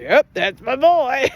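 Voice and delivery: a hint of a beaming dad bragging; proud dad.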